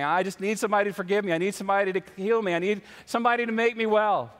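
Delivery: acted desperation, rising in pitch; retold distressed plea. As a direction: plead urgently, imitating an upset woman. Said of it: "she's just crying, and she's, she's upset".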